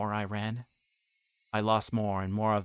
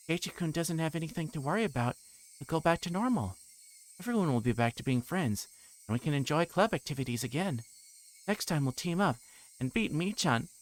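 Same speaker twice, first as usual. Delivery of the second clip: put-on higher, cheery girlish promise; sweet eerie girl; 7 semitones higher than usual. Reina reassuring Keiichi, eerie sweetness. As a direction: sweetly pretend all is well.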